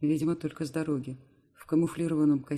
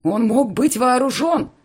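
slow, much higher and louder yell; breaking into a shout; 9 semitones higher, 14 dB louder, slower than usual. Acted. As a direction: explode at her in fear for her. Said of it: "срывается на крик".

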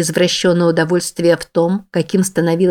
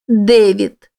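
begging cry; 4 semitones higher, 4 dB louder than usual. Acted. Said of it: "взмолилась она".

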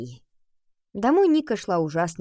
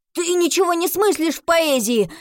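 heated outburst; 9 semitones higher, 4 dB louder than usual. Acted. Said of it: "горячо выпалил Коля".

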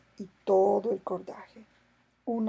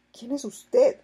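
high, louder astonished question; 4 semitones higher, 6 dB louder, slower than usual. A narrator's reading. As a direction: caught off guard. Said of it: "preguntó asombrado el capitán".

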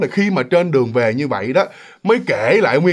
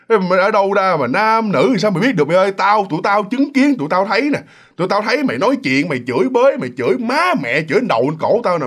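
higher-pitched, insistent arguing; indignant acted protest; 4 semitones higher than usual. Friends telling Thúy what they witnessed, in indignant protest. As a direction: pile up the accusations, pitch raised.

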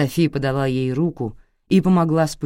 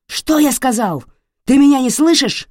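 loud, much higher roar; furious yell; 10 semitones higher, 8 dB louder than usual. Acted. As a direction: explode at her. Father yelling at wife.

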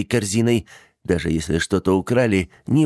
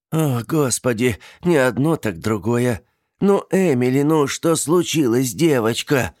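higher, worried coaxing; anxious aunt; 6 semitones higher than usual. A narrator's reading. Aunt coaxing frightened niece, worried. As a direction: plead with the frightened girl.

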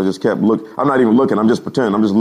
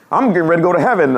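quick, raised mock shout; hurried yell, higher than usual; retold panicked shout; 5 semitones higher, 4 dB louder, faster than usual. Preacher retells evangelist running the aisle, mock shouting.

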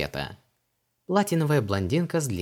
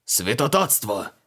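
slow, a bit louder outraged cry; mild hammed-up outrage at blasphemy; indignant yell; 3 semitones higher, 3 dB louder, slower than usual. A narrator's reading. Creole yells at Vanessa for shoving the cat, outraged. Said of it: "возмущённо заорал Креол".

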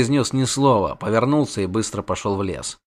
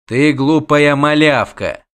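slow, emphatic put-down; stern scolding; 2 semitones higher, 3 dB louder, slower than usual. Acted. Witcher answers the shrieking princess, stern scolding. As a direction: scold the child word by word.

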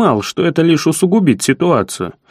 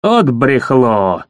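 indignant; 4 semitones lower, much slower than usual. Acted. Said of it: "возмутился Сиплый".

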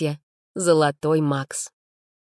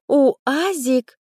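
much higher incredulous question on УАЗик; disbelieving echo; 9 semitones higher, 4 dB louder than usual. A narrator's reading. Friend echoes УАЗик in disbelief. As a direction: repeat УАЗик as if you can't believe it.

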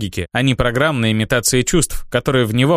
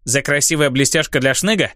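squeaky whining goblin; a small goblin begging for his share. Acted. Goblin pesters chieftain.

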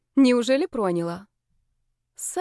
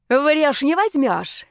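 high, loud battle yell; screaming defiance; 6 semitones higher, 5 dB louder, much slower than usual. A narrator's reading. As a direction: yell like you're being slaughtered. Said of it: "вопила я, как резаная".

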